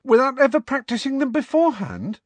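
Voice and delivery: very high, loud disbelieving question; incredulous. A narrator's reading. Student questioning professor about no practice, incredulous. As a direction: blurt it in disbelief, pitched right up. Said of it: "said Parvati incredulously".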